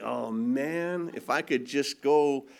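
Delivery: low, held-back inner grumble; restrained, mock seething; pent-up anger. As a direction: voice the angry heart under your breath. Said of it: "My heart is like".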